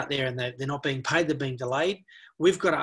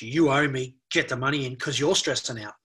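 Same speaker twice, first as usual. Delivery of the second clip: harsh demand; 4 dB louder than usual. Shown as a demonstration. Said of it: "rather than a harsh".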